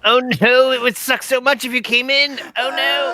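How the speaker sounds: high-pitched fake protest; hammed-up, inviting "oh no"; mock dismay. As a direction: act falsely distressed, in a high voice. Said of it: "everybody in the house is like".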